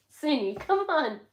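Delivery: high, loud pet-calling voice; calling a dog. Real, not acted. Owner urges the dog to come here, high coaxing. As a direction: urge the dog along, pitched right up.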